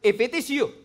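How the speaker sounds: high, loud call of "Lord"; eager call. Acted. Peter calling out to Jesus, loud and high. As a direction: call out over the water. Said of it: "Let's go to verse twenty-eight".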